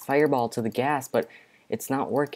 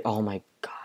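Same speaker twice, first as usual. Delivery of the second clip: breathy whispered oh my god; panicked whisper. Real, not acted. Hiding from the mob in the game, panicked whisper. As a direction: whisper it so the mob won't hear.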